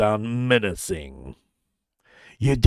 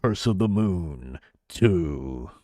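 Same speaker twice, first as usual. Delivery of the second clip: much lower, slow menacing title read; gritty deep voice; 9 semitones lower, slower than usual. Shown as a demonstration. Streamer showing the gritty title read, slow and low. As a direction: growl it slowly. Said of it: "more of a grit in your voice".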